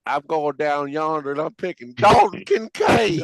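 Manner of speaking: put-on country accent. Asked again by host, shouts in country accent. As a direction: lay on a thick country accent. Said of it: "Drew, one more time".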